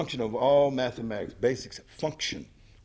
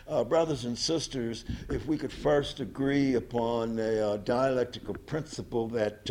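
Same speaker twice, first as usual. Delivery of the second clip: slow, halting, uh-filled delivery that loses the crowd; mock a flat, plodding speaker; imitating Huey's dull lecture. Imitating Huey lecturing the party members, slow and halting. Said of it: "he never could talk to a big audience".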